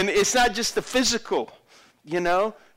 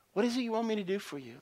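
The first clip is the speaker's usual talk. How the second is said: soft, quick, higher asking; gentle question; 5 semitones higher, 7 dB quieter, faster than usual. Acted. Jesus asking the blind man at his feet, gentle. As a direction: ask it softly and kindly.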